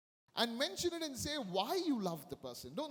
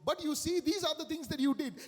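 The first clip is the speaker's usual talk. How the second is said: louder, higher, accusing comeback; mock blaming retort; 4 semitones higher, 4 dB louder than usual. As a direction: push back with blame, voice raised. Acted bad apology turning to blame.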